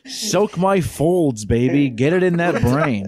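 very slow, drawn-out sultry come-on; mock sultry voice. Joking about the movie's brain scene in a hammed-up sultry voice. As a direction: purr it like a hammed-up seduction.

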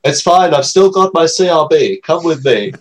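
cheerful creepy reassurance; creepy reassuring voice. Acted. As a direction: reassure them like a shady guardian. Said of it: "was a Family Guy reference".

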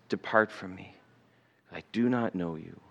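low, hushed pronouncement; quiet, grave judgment. Acted. God turning someone away on judgment day, quiet and grave. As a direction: drop low and soft for a solemn dismissal. God's final judgment voiced.

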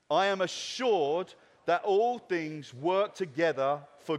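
steady, punchy creed reading with pauses between phrases; measured congregational declaration. Acted. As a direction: lead the room line by line at a deliberate pace. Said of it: "I'll set the cadence".

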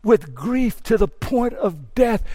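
slow, drawn-out anguished cry; crying out in grief. Retold or imitated. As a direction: let each word ache, very slowly. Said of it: "there he will cry out".

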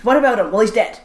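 lightly acted back-and-forth over a neighbour; a hint of small-town bickering; Nova Scotian family chat. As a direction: imitate relatives insisting you know someone. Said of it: "That is my life as a Nova Scotian".

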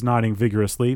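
plain reading voice

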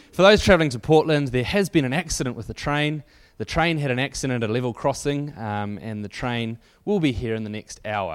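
lightly American announcer over the speakerphone; a hint of an American train announcement; mildly American tannoy voice. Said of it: "in an American voice".

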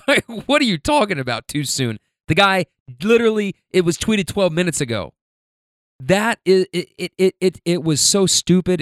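exasperated outburst. Real, not acted. Podcaster scolding his old tweet to listeners, exasperated and loud. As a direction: rant at your own stupidity, voice rising.

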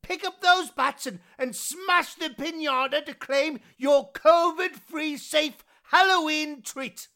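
talking through a letterbox; through a mail slot. Acted. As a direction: sweet-talk kids through the letterbox. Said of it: "I'm just speaking through the letterbox".

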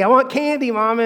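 little girl whining for candy, lightly voiced; mild mock shout. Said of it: "begins to shout for candy".

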